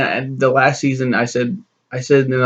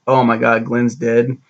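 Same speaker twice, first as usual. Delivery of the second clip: mock-stunned gasp at Glenn's death; shocked. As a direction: sound hit by the news. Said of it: "compared to the last one where it's like".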